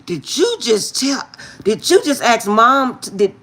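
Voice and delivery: mock shocked, half laughing; stunned at her friend, laughing disbelief. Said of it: "I was like".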